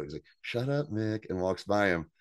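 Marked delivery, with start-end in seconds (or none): 0.4-1.3 hushed, softer retort; real quiet. Retold or imitated. Nate to Mick as he walks by, real quiet. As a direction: say it under the voice, quietly. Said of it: "real quiet, too".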